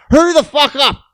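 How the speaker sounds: old man yelling impatiently, mock yell. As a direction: snap at him to hurry. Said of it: "And he's like".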